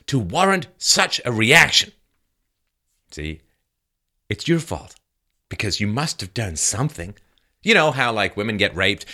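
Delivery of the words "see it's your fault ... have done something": mock accusing media. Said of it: "blamed the victim by demanding".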